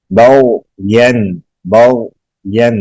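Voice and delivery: "بغین" slowly, smooth and without bounce; soft articulation. Shown as a demonstration. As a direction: draw "بغین" out gently. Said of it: "نرمی سے پڑھیں گے".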